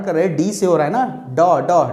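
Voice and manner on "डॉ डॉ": "डॉ" repeated as a separate opening D sound; first-sound demonstration. Shown as a demonstration. Teacher showing students the consonant that starts dog, isolated sound. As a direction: isolate "डॉ" and say it twice. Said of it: "डॉ निकल रहा है मुंह से".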